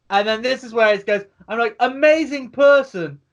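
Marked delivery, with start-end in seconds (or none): 1.8-3.2 excited. Retold or imitated. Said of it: "this is because I'm freaking".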